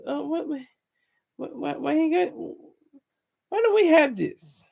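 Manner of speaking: high-pitched, badly faked Jewish accent; complaining in a clumsy put-on Jewish accent; bad mock Jewish accent. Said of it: "I don't know a Jewish accent".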